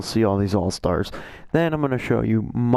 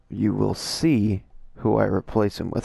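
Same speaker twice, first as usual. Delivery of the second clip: voice crack. Real, not acted. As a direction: voice cracking mid-sentence. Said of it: "Sorry for that voice crack".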